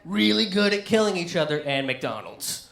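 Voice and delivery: a whale marveling at silly humans; mocking whale. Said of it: "they're gonna be swimming around going".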